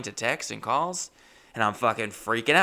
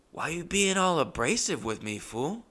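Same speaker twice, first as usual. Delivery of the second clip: higher, a touch wounded and irritated; hurt, pissed reply; 6 semitones higher than usual. Retold or imitated. Tattoo artist stung by the outburst, lightly hurt. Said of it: "He seemed heartbroken and pretty pissed".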